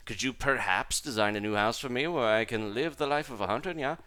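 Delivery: fancy cat character voice. Acted. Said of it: "gotta do some live voices here".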